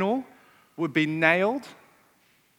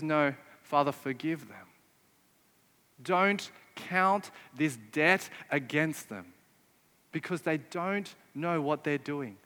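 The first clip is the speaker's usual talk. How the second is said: soft, slow, gentle plea to forgive; quiet and slow, lowered pitch, pleading gently; tender plea; 3 semitones lower, 4 dB quieter than usual. Retold or imitated. Preacher voicing Jesus on the cross, softly pleading.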